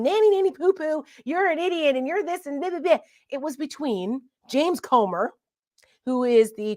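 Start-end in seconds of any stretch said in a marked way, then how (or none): 0.0-3.0 higher singsong "nanny, nanny, poo" mock taunt; half-hearted childish jeer; playground taunt. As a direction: tease like a kid on the playground.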